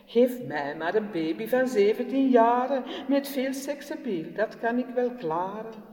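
put-on loud, dismissive teen rant; rude teenager. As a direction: brush her off like a bored, cynical teen. Teenager rants at her.

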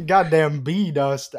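slow, through real laughter; laughing. Real, not acted. Echoing friend's silly name for pollen, real laughing. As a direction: let laughter stretch the words.

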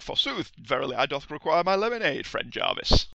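mock-Shakespearean hero voice; hammy Hercules. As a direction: ham up an archaic god, booming high. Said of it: "Hercules stood in the background like".

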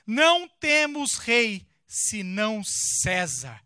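slow, loud declaration; the chief priest answers Pilatos, slowly and loud. Acted. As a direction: proclaim it slowly and firmly.

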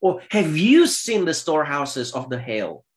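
opens high and loud, then settles; God's challenge. Acted. Preacher voicing God challenging Job, high and loud start. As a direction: thunder the first words like God. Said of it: "In verse twenty-two".

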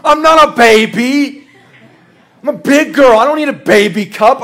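lightly acted toddler outrage; mad toddler. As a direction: imitate a small child's cross protest. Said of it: "She gets so mad at me".

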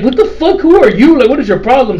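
mock outraged confrontation, pitched high; hammed-up exasperated challenge; retold indignation. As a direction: act out her snapping at a stranger. Retold quarrel with a stranger.

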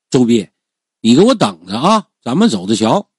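understated angry threat; humiliated anger. Acted. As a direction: threaten him with wounded pride. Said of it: "随即恼羞成怒". (恼羞成怒地放狠话)

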